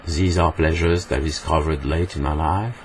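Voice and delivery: English in an even French accent; unexaggerated French-accented English. Shown as a demonstration. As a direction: say it as a French speaker would, rising at the end. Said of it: "En français, on dirait".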